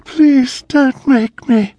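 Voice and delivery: high, loud, slow begging scream; screaming plea. A narrator's reading. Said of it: "Anne screamed".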